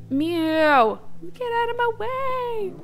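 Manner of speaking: high, drawn-out mock complaint; playful scolding. Real, not acted. Calling at cat in the way.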